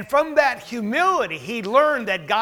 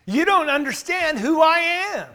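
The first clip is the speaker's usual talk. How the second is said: Peter's prideful retort; 5 semitones higher than usual. Retold or imitated. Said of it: "He's in effect telling Jesus".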